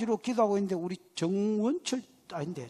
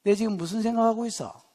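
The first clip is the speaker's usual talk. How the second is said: 장난스러운 질문. Shown as a demonstration. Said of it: "안승태 집사".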